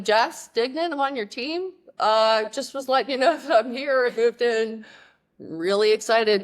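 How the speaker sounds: earnest freshman explaining herself; nervous eager. Retold or imitated.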